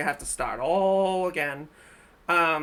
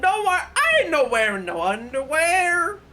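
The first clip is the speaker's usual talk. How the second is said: high, loud mock seductive voice; hammed-up sexy tease; mocking, sultry; 8 semitones higher, 6 dB louder than usual. Mocking the video character.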